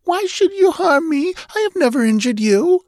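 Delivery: very high, frightened protest; terrified pleading. A narrator's reading. Captive pleads innocence to her captor, terrified. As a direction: plead in terror, high-pitched throughout. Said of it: "voice broke in a sob of terror".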